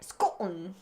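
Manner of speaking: one-word stab at a Scottish accent; Scottish accent attempt. Shown as a demonstration. Podcaster admitting that is all she can do, attempted Scottish. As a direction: put a Scottish accent on "Scotland". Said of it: "that's all I can".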